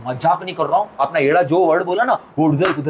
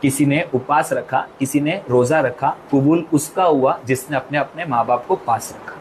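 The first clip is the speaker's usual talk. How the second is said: sad heartfelt message; 4 semitones lower than usual. Retold or imitated. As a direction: speak the pain gently and low. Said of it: "एक message दूंगी". (धीमी, दुखभरी भावुक बात)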